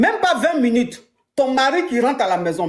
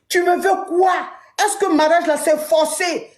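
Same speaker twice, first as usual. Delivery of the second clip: angry husband shout; 4 semitones higher than usual. Acted. Husband storming home to his wife, angry shout. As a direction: shout it at her, fed up.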